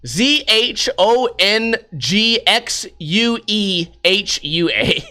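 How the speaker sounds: Z H O N G X U E H U A spelled slowly, letter by letter; spelling out letters. Shown as a demonstration. Spelling the name for iTunes listeners, slow letters. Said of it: "For anyone listening on iTunes".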